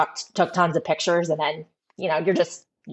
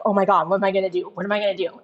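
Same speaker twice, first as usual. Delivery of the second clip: retold panic; much faster than usual. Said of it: "So now I'm freaking out".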